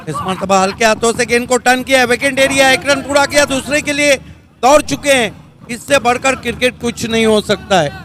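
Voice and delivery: quick, lifted play-by-play call; excited cricket commentary. Acted. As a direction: call the run as it happens. Live play-by-play of a run.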